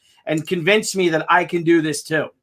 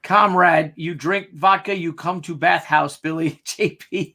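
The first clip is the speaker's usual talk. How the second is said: lightly put-on Russian accent, mock; hammed-up mock Russian accent; bad Russian accent; 3 semitones lower, slower than usual. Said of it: "our bad English accents".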